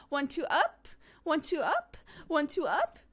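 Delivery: put-on high toddler chant, up lifted each time; a little one demanding up, pitched high; mimicking her toddler's chant; imitating toddler. Toddler voiced demanding stand up.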